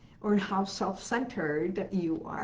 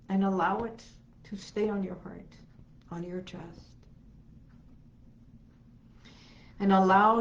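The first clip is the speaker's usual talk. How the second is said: guided meditation. Acted. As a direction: guide them gently into calm.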